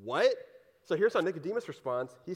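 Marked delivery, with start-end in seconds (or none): 0.0-0.3 confused what. Retold or imitated. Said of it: "you're like".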